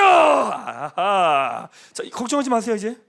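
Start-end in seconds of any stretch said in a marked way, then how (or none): 0.0-1.7 loud delighted laughing shout. Real, not acted. Pastor laughing loudly after the congregation throws.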